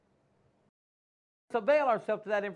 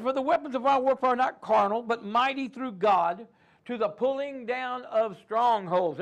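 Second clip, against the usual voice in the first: preacher proclaiming scripture; scripture reading; 3 dB louder than usual. Acted. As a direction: proclaim the verse.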